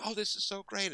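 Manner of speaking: high-pitched thrilled exclamation; retold giddy appreciation; delighted gushing. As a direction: imitate someone marvelling in delight. Acts out star's delight.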